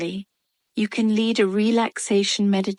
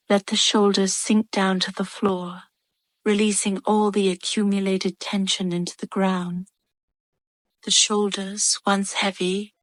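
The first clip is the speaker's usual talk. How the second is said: measured meditation voice with long pauses; calm, even relaxation instructions, unhurried between phrases; guided meditation. Acted.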